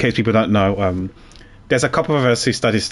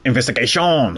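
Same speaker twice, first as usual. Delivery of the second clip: announcing. Real, not acted. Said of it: "begin investigation".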